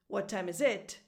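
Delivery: "What time is it" with final "it" stressed, rising; wrong stress on IT. Shown as a demonstration. Learner asking someone the time, stress on IT. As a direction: push up on the last "it". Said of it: "the same kind of effect".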